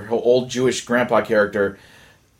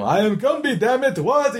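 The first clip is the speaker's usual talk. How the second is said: put-on high, yelling Jewish old man accent; loud Jewish guy accent; 10 semitones higher than usual. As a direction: belligerent Jewish Gumby shout. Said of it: "loud Jewish guy accent".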